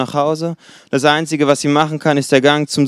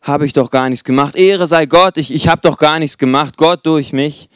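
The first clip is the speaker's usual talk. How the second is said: mock humble; 4 dB louder than usual. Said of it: "angenommen, er würde sofort".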